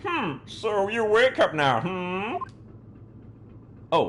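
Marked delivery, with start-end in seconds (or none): 0.1-2.4 higher, louder mocking Russian sailor. Player voices the Russian taunting the captive, mocking. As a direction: sneer at the waking prisoner. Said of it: "that's the Russian".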